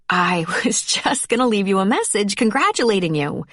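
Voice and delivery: a flustered laugh breaking into the line. Acted. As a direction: laugh through it, a bit embarrassed.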